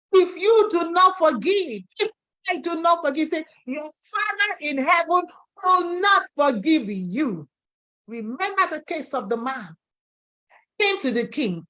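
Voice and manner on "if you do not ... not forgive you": emphatic warning. Acted. Preacher warns congregation emphatically.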